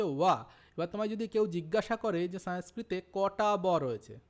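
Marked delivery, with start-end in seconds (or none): 0.0-0.4 ওয়া with a W glide at the start; w sound. Shown as a demonstration. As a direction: say ওয়া as in English W. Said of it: "তাহলে এর উচ্চারণ হচ্ছে".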